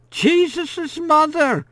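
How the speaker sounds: put-on high, slow cry of an amazed old woman; startled old woman. A narrator's reading. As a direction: gasp it out as a stunned Madame Manette.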